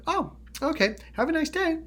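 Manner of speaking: high, airy, pleasant sign-off; switched-off rage. Retold or imitated. Showing the friend's abrupt switch, mock-pleasant goodbye. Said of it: "like, you turned off the water faucet".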